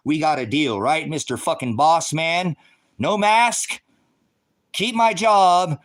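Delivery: rising to a loud, high, slow shout; defiant yell. Pretend. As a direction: build to a bellow and hammer out the last words. Mock standoff with boss over masks.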